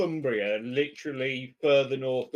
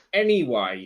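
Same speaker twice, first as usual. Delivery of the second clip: low flat anyway; 4 semitones lower than usual. Shown as a demonstration. Co-host repeats "anyway" low and firm to move on. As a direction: drop "anyway" down low and matter-of-fact. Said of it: "It, anyway".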